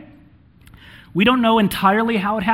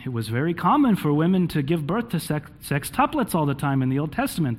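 put-on a light Jewish rabbi accent; old rabbi voice, lightly Jewish; 3 dB quieter than usual. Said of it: "that's my Hebrew Jewish rabbi accent".

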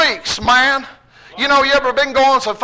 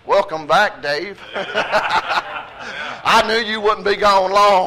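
devil voice; 2 semitones lower, 3 dB quieter, much slower than usual. Retold or imitated. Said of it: "I heard the old devil say".

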